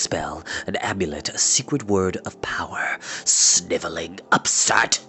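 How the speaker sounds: a hint of a low, sneering old wizard; cold scorn of a wicked wizard, lightly voiced; lightly voiced wizard Morda. Wizard gloating to his captives, lightly voiced sneer.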